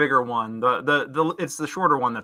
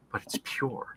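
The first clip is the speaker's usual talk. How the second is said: awed whisper; 9 dB quieter than usual. A narrator's reading. GM whispers about the angel wing.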